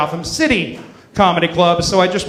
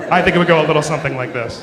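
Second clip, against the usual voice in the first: rushed, faster repeat; quick mock setup; 4 semitones lower, faster than usual. Shown as a demonstration. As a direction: say it quickly, tongue in cheek. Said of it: "exactly what I'm about to do".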